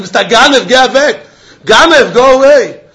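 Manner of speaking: hammed-up shout of get out at a burglar; mock yell at a thief. Yelling at the thief in example.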